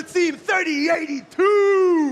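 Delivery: shouted team number; hype shout. Acted. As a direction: punch the number out to the crowd. Announcing teams to the crowd.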